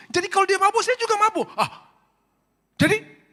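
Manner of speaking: very high, loud squeal; comic squeaky voice. Retold or imitated. Wife and pastor in a comic, very high squealing exchange. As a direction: squeal it out like a cartoon.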